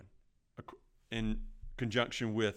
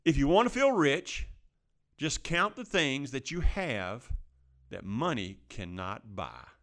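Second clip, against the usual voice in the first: quote reading; 2 semitones higher, 4 dB louder, slower than usual. Shown as a demonstration. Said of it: "but it says".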